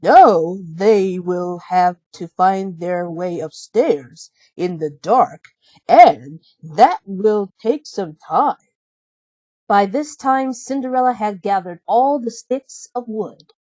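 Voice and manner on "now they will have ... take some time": a little mouse crying out in alarm; Gus the mouse. Acted. Gus voiced.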